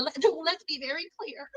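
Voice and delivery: laughing through the words; cracking up mid-line. Real, not acted. Vlogger laughing at her own Kamala reference. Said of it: "like, like Kamala".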